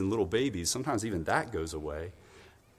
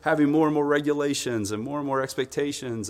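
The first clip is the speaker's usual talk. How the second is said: loud, raised-pitch venting teacher; worn-out teacher; 5 semitones higher, 6 dB louder than usual. Acted. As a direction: play a teacher spilling out complaints. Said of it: "the teachers are like".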